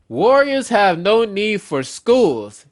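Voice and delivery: loud, slow contemptuous decree; scornful villain decree. Pretend. Villain decrees to the giants, loud and scornful. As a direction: sneer it down at them.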